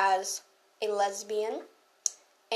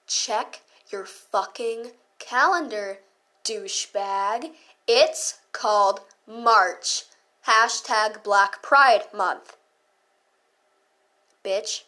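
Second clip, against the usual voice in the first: slow cutting comeback; 3 dB louder, much slower than usual. Retold or imitated. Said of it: "And I said".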